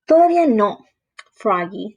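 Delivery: gentle mother correcting her son; voz de mamá. Acted. Mamá responde a Froggy. (voz de mamá, un poco más aguda)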